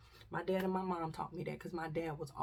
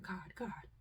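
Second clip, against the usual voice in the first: soft unvoiced repeated plea; mother whispering to God while fleeing; whispered frantic prayer; 9 dB quieter than usual. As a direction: pray under your breath in panic. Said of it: "I was just calling his name".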